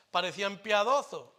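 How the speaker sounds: "piadosos" slipping into a Sevillian accent, s softened toward th as "piadoθo"; a quick, unintended Andalusian Sevillian lilt on "Parecían piadosos". Real, not acted. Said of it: "me ha salido el acento sevillano". (acento sevillano que se escapa en "piadosos")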